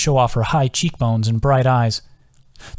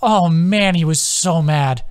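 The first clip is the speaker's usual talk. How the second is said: laughing; 5 semitones higher, slower than usual. Acted. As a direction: gasp it out between laughs. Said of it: "Adam was taking breaks to laugh".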